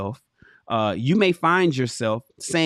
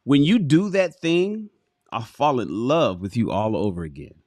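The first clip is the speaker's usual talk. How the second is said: tender. Shown as a demonstration. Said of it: "Oh, baby, I love that".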